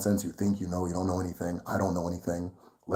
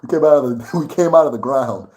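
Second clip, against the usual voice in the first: louder, laughing through the quote; laughing repeat; 3 semitones higher, 6 dB louder than usual. Retold or imitated. Retelling the villagers' answer, laughing loudly. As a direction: laugh as you repeat it, amused. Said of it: "They, they'll say".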